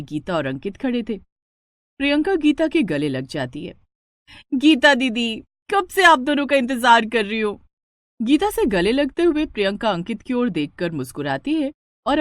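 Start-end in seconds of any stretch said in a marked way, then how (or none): 4.5-7.6 eager, slightly raised and louder welcome; excited greeting. Acted. Priyanka to Geeta didi at the door, excited greeting. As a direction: greet her like you've been waiting.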